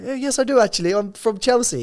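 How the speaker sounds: mock posh Chelsea English, hammed up; Queen's English posh. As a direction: insist in exaggerated posh English. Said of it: "Queen's English posh".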